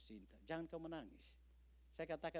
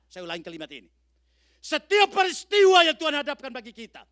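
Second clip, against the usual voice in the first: higher and much louder, hammering each sedalam apapun; preaching at full force; 13 semitones higher, 22 dB louder than usual. Acted. Preacher thundering at the congregation about suffering, full-force preaching. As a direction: build to a thundering pulpit cry.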